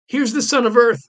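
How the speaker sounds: unabashed mockery. A narrator's reading. Loki mocking Thor before the gods, sneering. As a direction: jeer at Thor without shame. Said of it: "cried Loki, unabashed".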